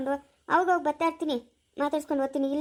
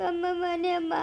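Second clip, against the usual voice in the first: tearful plea; slower than usual. Acted. Son begs to go home.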